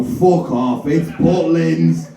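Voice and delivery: slow, drawn out on "Butlins"; exasperated dismissal. Retold or imitated. Host wanting to dismiss every answer, drawn-out exasperation. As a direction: stretch it out, dismissing a daft guess. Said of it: "you wanted to go".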